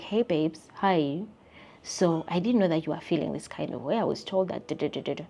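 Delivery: soft, sweet mock-friendly voice; sugary soft call. Vlogger voicing a sweet fake call to a gossiping friend, soft. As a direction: coo it like a fake-nice friend.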